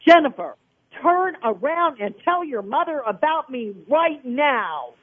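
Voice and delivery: God yelling. Retold or imitated. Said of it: "he yelled in my ear".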